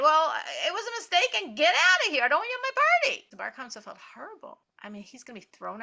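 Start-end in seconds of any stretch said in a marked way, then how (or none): 0.0-3.3 high, loud and fast furious host; angry shout. Acted. Host refusing the guest's plea, angry shout. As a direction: throw him out with a yell. Host throws out Bar Kamsa.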